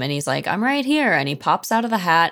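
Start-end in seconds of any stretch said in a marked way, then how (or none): 0.5-1.1 higher, playful mock reveal; lightly voiced, high-pitched call from hiding; giggling hider popping out. Moomin popping out of the hat, playfully high.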